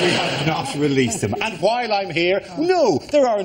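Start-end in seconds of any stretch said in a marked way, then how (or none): 0.0-1.3 slow, tired official sighing it out again; like a man sick of repeating himself; weary tone. Retold or imitated. Army officer wearily repeating a denial to the public. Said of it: "With the weary tone of a man".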